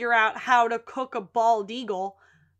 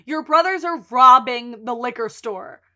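alarmed objection; 8 dB louder than usual. Retold or imitated. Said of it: "he's objecting 'cause like".

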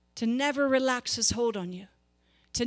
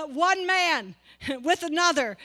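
laughing through the words; 2 semitones higher than usual. Real, not acted. Laughing at the scene.

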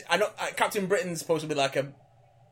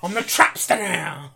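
slow, drawn-out mock protest; indignant Trapster; 4 dB louder, slower than usual. Villain insisting on his new name, mock indignation. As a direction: insist on the title, stretching it out.

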